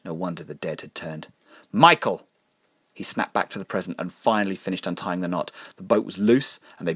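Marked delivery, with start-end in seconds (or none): 1.7-2.3 high, loud shout of his name; urgent call. Acted. Belinda snaps Michael back to the present, urgent shout. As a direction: shout to jolt him out of it.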